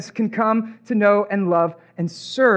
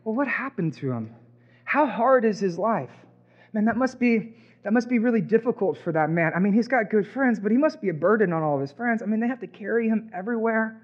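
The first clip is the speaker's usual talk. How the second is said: softer, pitying murmur; quiet pity; 5 dB quieter than usual. Retold or imitated. Onlooker pitying the lowered man, softer murmur. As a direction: feel sorry for him under your breath. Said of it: "You'd think".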